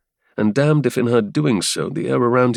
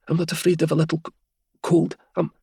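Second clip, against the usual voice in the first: Helia voice; 8 semitones higher, faster than usual. Acted.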